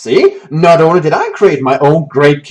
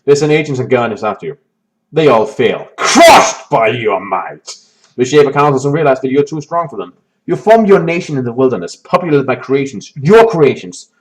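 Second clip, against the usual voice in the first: story narration. A narrator's reading. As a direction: read it like an epic. Reading the game's story text.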